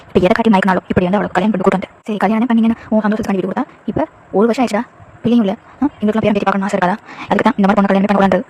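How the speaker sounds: a lightly voiced mother nagging her son; mild reproach, a mother complaining; scolding mother-in-law. Mother-in-law scolding son over no grandchild, lightly voiced.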